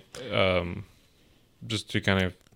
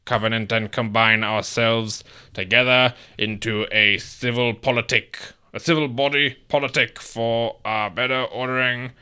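put-on old-timey voice. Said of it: "Can you do it in, like, a old-timey voice".

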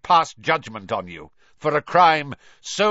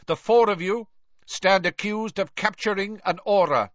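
loud stern; 6 semitones higher, 5 dB louder than usual. A narrator's reading. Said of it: "speaking more loudly".

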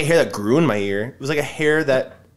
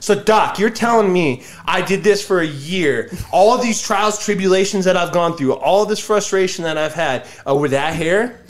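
mock incredulous; 4 semitones higher than usual. Retold incredulous question to doctor.

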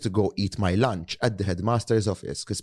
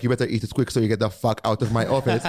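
higher, louder cheerful headmaster voice; jolly headmaster; 3 semitones higher, 4 dB louder, faster than usual. Retold or imitated. Henry imitating the headmaster eyeing his lunch, higher and louder, jovial. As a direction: ham up a greedy, kindly headmaster. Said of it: "most probably he used to be like".

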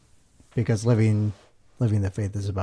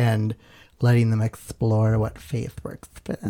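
California hippie voice. Acted. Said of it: "That was my, um, twenty-year-old California hippie voice".

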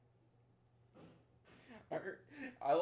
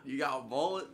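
mock Southern twang; playful Southern bar order; put-on Southern accent; 5 dB louder than usual. Echoing the requested Southern accent.

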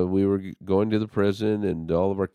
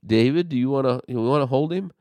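put-on higher, eager invitation to hold the baby; bright eager offer; 7 semitones higher, faster than usual. Offering the baby to David, eager and lifted.

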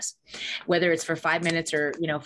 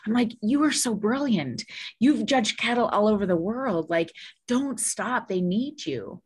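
put-on higher, eager praise for the new boyfriend; talking up a discouraged date with enthusiasm; encouraging date; 3 semitones higher, slower than usual. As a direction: cheer him on brightly, a little higher. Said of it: "and I said".

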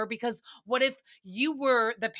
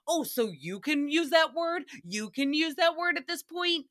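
indignant retort; 5 semitones higher than usual. Retold or imitated. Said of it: "Josh flagged wicked quick".

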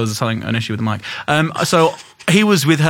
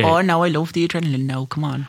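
put-on Irish accent; 2 semitones higher, 3 dB quieter than usual. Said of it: "that's a terrible Irish accent as well".

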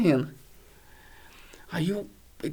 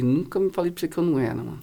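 laughing retort; 2 semitones lower, 5 dB quieter, faster than usual. Retold or imitated. Joking reply, laughing.

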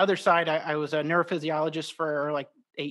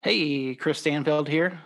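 slow announcer-style intro; radio voice; 3 dB louder, slower than usual. Acted. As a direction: introduce yourself like a radio host. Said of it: "My radio voice kicking in".

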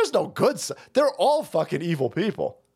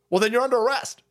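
slightly raised, matter-of-fact retort; firm mock judge; 4 semitones higher, faster than usual. Judge answering Georgia county's excuse, firm mock retort. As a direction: play the judge answering back, first take.

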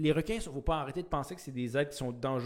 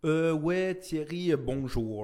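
lightly put-on British-accented French; mock bilingual comic accent; 3 semitones higher, 3 dB louder than usual. Co-host guessing how the British humorist sounds, mock British-accented French. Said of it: "Donc, ça donne quoi, mettons".

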